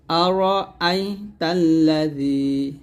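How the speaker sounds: slow recitation with a thin, light "যী" in তাল্লাযী; thin z sound. Shown as a demonstration. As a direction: keep the "যী" of তাল্লাযী thin and drawn out. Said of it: "জি পাতলা হবে".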